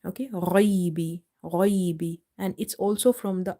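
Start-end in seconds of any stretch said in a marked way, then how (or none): 0.3-2.2 ghaibi with a rounded heavy gh; full mouth. Shown as a demonstration. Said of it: "try to read it full mouth".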